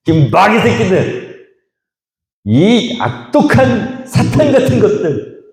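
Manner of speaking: slow, high, drawn-out curse; mock angry cursing. Isaac cursing the quarrelling herdsmen, slow and furious. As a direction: spit each word out slowly in mock fury. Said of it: "이렇게".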